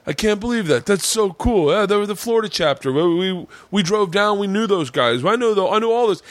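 high-pitched, thrilled biker being imitated; impressed excitement. Biker learns he knew the Florida chapter, excited. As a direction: gush in a high retold voice.

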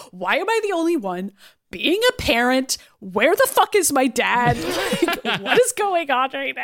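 mildly exasperated, half-laughing mock rant; annoyed. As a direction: act out someone fed up, breaking into laughter. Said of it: "I love annoyed Wanda".

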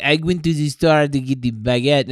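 lightly put-on French accent; mock French accent. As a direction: play a Frenchman chatting about bread. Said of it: "He's like".

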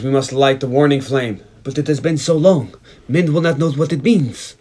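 put-on measured film-queen delivery in an Israeli accent; lightly imitated Israeli accent, solemn. Host quoting the queen on the warning flame, light Israeli accent. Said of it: "they all have that Israeli accent".

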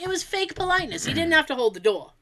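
indignant, high start settling down; retold tirade. Repeating the rant about the polite man, indignant tirade. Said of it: "I went on that same tirade".

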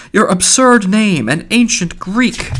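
high, drawn-out merry mockery; mock the name merrily, slow and high; gay. A narrator's reading. Mulligan pokes friendly fun at Stephen's name, gaily. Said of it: "he said gaily".

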